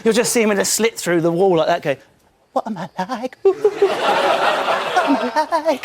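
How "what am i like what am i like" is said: self-pitying whine. Retold or imitated. Sad monkey face voice.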